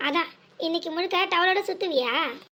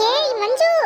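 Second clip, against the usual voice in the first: calling out; 5 semitones higher, 5 dB louder, much slower than usual. Acted. Calling out to sister.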